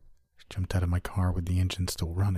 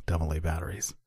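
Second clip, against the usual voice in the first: quiet wry aside to himself, softer; to himself with a smirk; 3 semitones lower, 6 dB quieter than usual. Acted. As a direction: mutter it with a smirk, amused at the old tech. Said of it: "I said to myself with a smirk".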